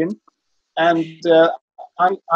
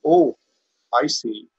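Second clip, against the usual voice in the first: rough Welsh imitation, falling away; Rhys Vaughan's Welsh accent; 3 semitones lower, slower than usual. Lawyer turns to the public gallery, mock-knowing in rough Welsh. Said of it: "I can't really do the Welsh accent".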